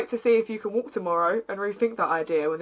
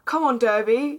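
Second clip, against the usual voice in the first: yelling; 4 semitones higher, 6 dB louder than usual. Acted. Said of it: "you hear Niall yell at the T V".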